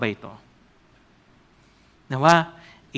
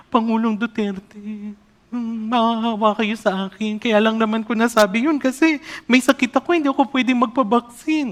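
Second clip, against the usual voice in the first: meek pleading woman; 6 semitones higher than usual. Retold or imitated. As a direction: beg the president like a meek lamb. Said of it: "naging maabong tupa siya". (mahinhing pakiusap na parang maamong tupa)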